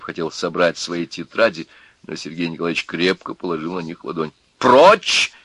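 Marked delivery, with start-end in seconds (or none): 4.6-5.3 high, loud command; sharp raised cry; shout. A narrator's reading. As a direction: shout it as an order to back off. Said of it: "крикнул Князев".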